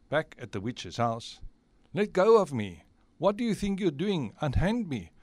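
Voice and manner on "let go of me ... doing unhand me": high, indignant captive's cry; indignant protest. Acted. Captive seized at the witch's house, acted indignation. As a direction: protest as you are grabbed.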